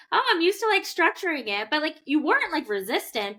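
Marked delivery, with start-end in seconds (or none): 0.1-1.7 mock high quote. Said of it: "And you're like".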